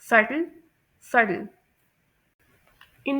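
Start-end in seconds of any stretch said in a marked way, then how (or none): 0.0-1.5 सटल with a soft "d"-like "t", like suddle; soft-d subtle. Shown as a demonstration. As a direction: say सटल with the flapped American "t". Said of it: "soft डी की sound".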